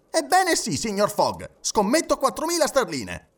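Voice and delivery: very high-pitched, heated declaration; crying out. A narrator's reading. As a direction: burst out with the wager. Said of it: "gridò". (grido infervorato)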